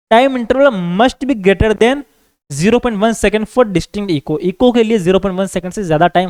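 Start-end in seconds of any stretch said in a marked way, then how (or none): 0.1-4.4 very slow, word by word for copying; measured note-dictation voice. Acted. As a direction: dictate it so students can write it down. Teacher dictates notes in English.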